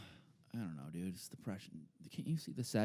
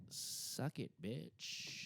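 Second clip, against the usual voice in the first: whisper; 4 semitones higher, 9 dB quieter, much slower than usual. Retold or imitated. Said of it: "And I was like".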